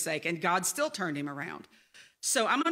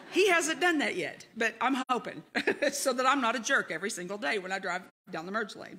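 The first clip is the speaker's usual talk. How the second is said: laughing; 3 semitones higher than usual. Real, not acted. Laughs at own confession.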